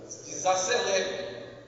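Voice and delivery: slow, drawn-out calming; hushed slow instruction to slow down. Retold or imitated. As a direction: stretch it out slowly. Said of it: "Jesus mandou uma mensagem".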